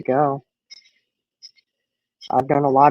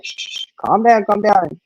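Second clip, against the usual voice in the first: put-on higher-pitched hushing of a child; imitated soothing; 5 semitones higher than usual. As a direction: mimic an aunt trying to settle a child. Aunt soothing crying child, retold.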